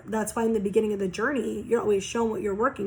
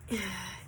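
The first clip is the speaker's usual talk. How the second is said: quiet exhale between phrases; soft sigh; 2 semitones lower, 12 dB quieter than usual. Real, not acted. Reader searching for words for the cards, soft sigh. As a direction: let out a soft, brief sigh.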